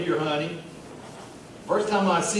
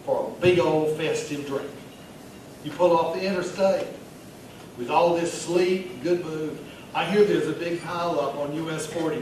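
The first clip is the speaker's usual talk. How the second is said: chatty pet-store manager at a bar; Vernon Ricketts. Acted. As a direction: play a festive mall regular chatting up a stranger. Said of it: "read it in the voice of the character".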